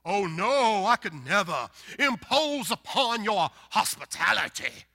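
hammed-up Southern host insisting; Southern politeness back-and-forth. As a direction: act out both sides of Southern hospitality. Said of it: "what people do in the South".

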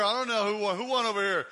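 normal talking voice

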